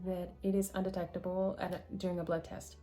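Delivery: halting, stumbling speech; stuttering. Real, not acted. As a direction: trip over the words a little. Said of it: "Sorry, I'm stuttering".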